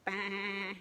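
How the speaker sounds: put-on a short bah for kids; sheep bleat. Shown as a demonstration. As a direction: bleat like a lamb. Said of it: "What's a sheep say?".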